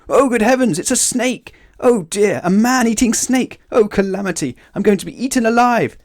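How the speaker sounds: very high, loud hysterical panic; over-the-top storybook terror; terrified shrieking. A narrator's reading. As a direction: wail each line as sheer catastrophe. Terrified character mistakes worm for snake.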